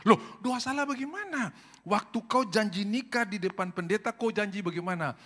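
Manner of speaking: indignant wife. Retold or imitated. Wife protesting to the pastor, high and indignant. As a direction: object in a high, startled tone.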